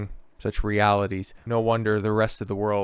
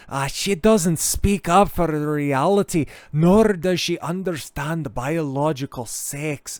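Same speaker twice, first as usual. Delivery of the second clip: mock voice; 6 semitones higher, 3 dB louder, slower than usual. Reading critic's tweet mockingly.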